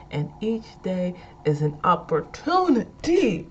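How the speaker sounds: hard punched endings with an extra "-ah"; mock preacher. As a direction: build into playful church preaching. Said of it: "Okay, let me stop".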